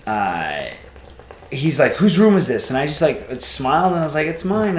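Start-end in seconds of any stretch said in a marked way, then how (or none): 1.9-2.7 retold freaked-out question, higher and louder; freaking out. Hotel owner confronting the guest in the room, freaking out. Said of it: "they're freaking out". 4.3-4.8 high, smiling friendly answer. Retold or imitated. Smiling guest answering the hotel owner, very friendly. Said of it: "being very as friendly as I could".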